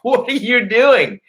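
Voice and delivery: high, slow, drawn-out mocking question; mock laughing taunt. Pinning his attacker and laughing at him, mocking high taunt. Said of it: "I was, like, laughing at him".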